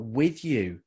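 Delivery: "with you" said firmly, the weight on "with"; stress on with you. Shown as a demonstration. A man explaining the lyric's real meaning, stressing "with you". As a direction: land the emphasis on "with you". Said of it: "The emphasis in this sentence, in this phrase, is about".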